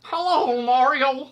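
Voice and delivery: high, gurgling water voice; gargling voice. Retold or imitated. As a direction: talk like you're gargling water. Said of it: "like it was gargling water".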